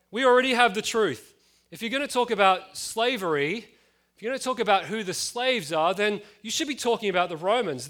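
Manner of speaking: proud Pharisees brushing off Jesus, smug and preachy. Retold or imitated. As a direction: play the pious snob looking down on pagans.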